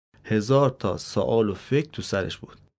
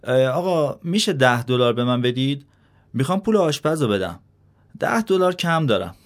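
polite, higher servant voice, a bit hurried; respectful servant; 4 semitones higher, 4 dB louder than usual. Acted. Servant politely asks the old man for money, respectful and higher. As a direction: ask humbly, rising higher. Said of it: "با احترام به پیرمرد گفت".

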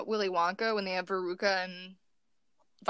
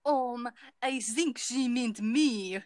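put-on slow, drawn-out French accent; much slower than usual. Rob answering with his assigned line, in a French accent. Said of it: "you can be French".

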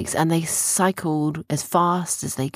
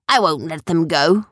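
loud pretend defiance; fierce pirate act; 6 dB louder than usual. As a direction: refuse as a play pirate. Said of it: "his fierce pirate mode".

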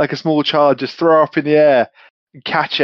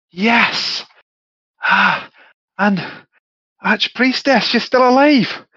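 much higher, excited Scottish shout of victory; Scottish whoop; 10 semitones higher than usual. Acted. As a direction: yell the triumph in a Scottish brogue. Atlas celebrating the kill.

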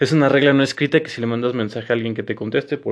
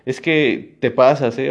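"es que te pasas, ¿eh?" lento, reprochando en broma; reproche burlón; slower than usual. Shown as a demonstration. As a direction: alarga el regaño juguetón. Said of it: "cada palabra es diferente". (reproche lento y burlón)

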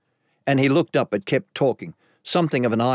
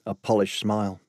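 usual speaking voice

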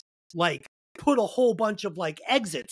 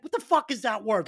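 mock-exasperated, raised pitch; retold bafflement at an unknown word; puzzled outburst, acted out; baffled; 4 semitones higher than usual. Reenacting bafflement at wife's script.

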